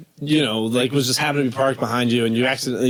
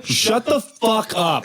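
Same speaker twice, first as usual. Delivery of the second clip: mock sergeant; 8 semitones higher, much slower than usual. Imagined sergeant on the phone.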